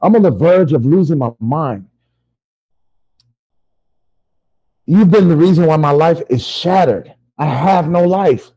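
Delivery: loud, desperate accusation; anguished outburst. Acted. Victim blames doll for shattered life, loud anguished outburst. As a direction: pour out the blame at full voice.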